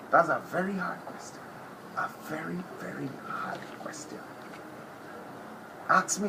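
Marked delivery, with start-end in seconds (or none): 2.0-4.2 mock musing. Mock pondering.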